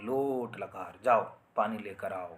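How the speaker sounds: loud slow order, stress on जाओ; forceful command. Shown as a demonstration. Teacher showing how an order is spoken, forceful. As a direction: lean hard on जाओ like a command. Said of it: "आप बोलते हैं".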